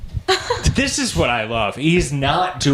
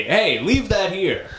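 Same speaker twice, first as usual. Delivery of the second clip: mock high-pitched call; 7 semitones higher, slower than usual. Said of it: "and they say".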